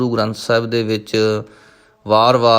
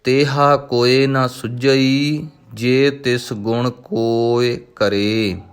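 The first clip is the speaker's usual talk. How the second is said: slow, drawn-out devotional chanting of each word; slow Gurbani recitation; much slower than usual. Acted. Teacher reciting Japji Sahib for students, slow devotional chant. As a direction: intone every syllable slowly and reverently.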